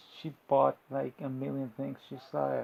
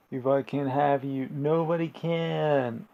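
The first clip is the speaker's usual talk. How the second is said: acted threat; 7 dB louder than usual. Jealous man threatens wife in retelling.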